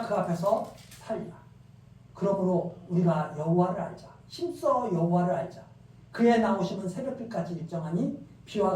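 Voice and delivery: solemn, measured Bible reading; scripture reading. Acted. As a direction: read the prophet's words with weight. Reading Hosea 6 aloud. (엄숙한 성경 낭독)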